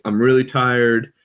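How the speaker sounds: "really tired" with a strong rolled-back R; slow, careful R in "tired"; exaggerated R. Shown as a demonstration. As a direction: lean hard on the R in "really" and "tired". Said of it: "if we do, like".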